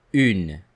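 Une with a rounded u; teacher models Une; French u demo. Shown as a demonstration. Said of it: "in this word the sound U".

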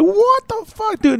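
high incredulous retold outburst; mock shocked reaction. Friend retelling his reaction to the movie, mock shocked. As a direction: play up your disbelief at the scene. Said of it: "I was like".

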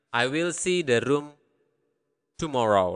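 long pause before the last word; careful, broken up. Shown as a demonstration. Teacher piecing a translation together, careful and broken up. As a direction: give the sentence in separate pieces.

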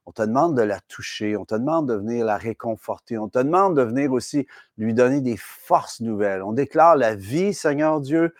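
praying aloud. Acted. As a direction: pray over her with conviction. Leads a prayer for Linda.

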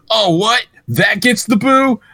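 high, drawn-out disbelief at the crowd; mock indignation. Comedian reacting to a booed sports joke, mock indignant. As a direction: imitate a comic affronted by boos.

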